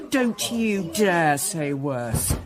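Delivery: slow, deliberate warning. Acted. Wife warning her husband not to say it could be worse, slowly. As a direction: spell out each word as a threat.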